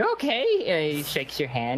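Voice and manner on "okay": put-on small boy's okay. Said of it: "He's like".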